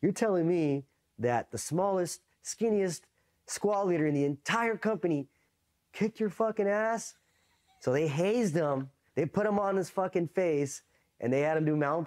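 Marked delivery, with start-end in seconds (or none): 0.0-7.2 high, slow, disbelieving; incredulous drill instructor. Retold or imitated. Drill instructor laughing at the beaten recruit, incredulous. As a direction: stretch it out in mocking disbelief. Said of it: "He's like".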